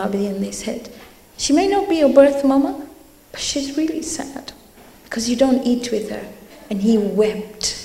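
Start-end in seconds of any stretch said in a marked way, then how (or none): 1.4-6.2 gentle plea. Retold or imitated. Friends pleading with Imam Zainul Abidin for the maid, gentle and higher. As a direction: ask kindly on her behalf.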